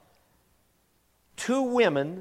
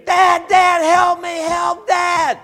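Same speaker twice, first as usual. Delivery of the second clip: high, loud panicked cries for Dad; a boy's hammed-up screams for his dad; retold screaming; 10 dB louder, much slower than usual. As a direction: yell for help like a scared boy. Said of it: "he's screaming".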